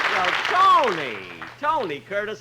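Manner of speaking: hammed-up delight at a star; surprised greeting. Host greeting a surprise star guest, hammed-up surprise.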